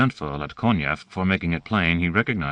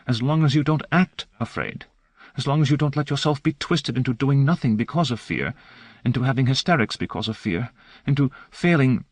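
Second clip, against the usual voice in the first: angry whisper; 8 semitones higher than usual. A narrator's reading. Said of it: "virtually hissing through clenched teeth".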